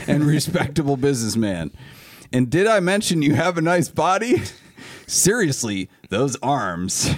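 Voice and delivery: put-on email read in a light Southern accent. Host reading a fan's email to friends, light Southern accent. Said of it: "reading this in a Southern accent".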